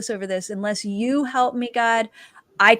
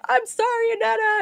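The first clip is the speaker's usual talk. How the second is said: very high, helpless put-on apology; imitating hysterical friend; 11 semitones higher than usual. High friend on the floor to the speaker, mock hysterical apology. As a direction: squeal it like a helplessly giggly friend. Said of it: "on the floor laughing hysterically".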